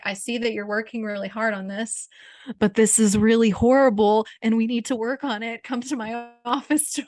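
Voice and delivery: stern teacher tone, lightly done; a hint of a strict teacher; serious voice. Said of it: "I'm just using my serious voice".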